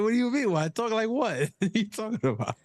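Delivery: high, feigned-innocent voice; mock innocent protest. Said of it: "I'm like".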